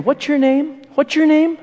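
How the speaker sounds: mock suspicious father; insistent father. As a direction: push him for the truth. Father asks again.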